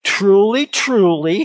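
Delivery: forceful, separated stress on both words of "Truly, truly"; emphatic statement. Retold or imitated. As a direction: ring out "Truly, truly" as a solemn declaration. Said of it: "his emphatic statement".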